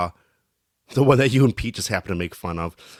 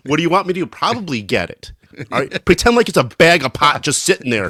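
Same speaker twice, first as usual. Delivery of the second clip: higher, louder mock of a teammate shrugging helplessly; 5 semitones higher, 5 dB louder than usual. Player voicing a teammate shrugging at the bench, hammed-up helplessness. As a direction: act out a clueless shrug at the bench. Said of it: "points at the puck like".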